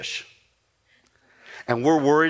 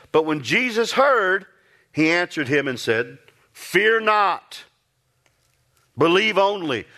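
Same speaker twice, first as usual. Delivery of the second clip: fervent scripture reading; 6 semitones higher, slower than usual. Acted. Preacher to congregation, reading the verse fervently. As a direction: lift the verse up with fervour. Reads verse with rising fervour.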